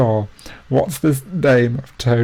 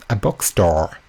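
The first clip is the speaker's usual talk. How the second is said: mock American accent that slips to British; trying an American accent on bookstore; failed American accent; 3 semitones lower, slower than usual. Shown as a demonstration. Answering a quiz, a failed American accent. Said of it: "That was not an American accent".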